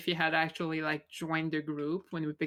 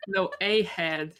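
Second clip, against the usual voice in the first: "a" drawn out and emphasized; slow correction leaning hard on "a"; stress on A; slower than usual. Real, not acted. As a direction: correct them by stretching out the word "a". Correcting the dropped article.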